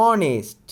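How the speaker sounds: অনেস্ট with no h, opening on a bare vowel; teacher models অনেস্ট without the h; silent h. Shown as a demonstration. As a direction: say অনেস্ট dropping the h entirely. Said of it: "খেয়াল করেন, অনেস্ট".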